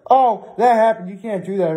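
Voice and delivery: lightly mocked outraged commenter; a touch of crazy commenter. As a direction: do a mild mock fan protest. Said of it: "one of those crazy commenters".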